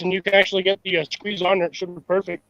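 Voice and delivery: choppy, breaking-up call audio; bad connection. Real, not acted. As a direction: voice dropping out over a weak phone line. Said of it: "my connection's janky A F right now".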